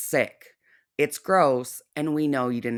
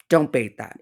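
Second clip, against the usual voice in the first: firm warning; 4 dB louder than usual. Real, not acted.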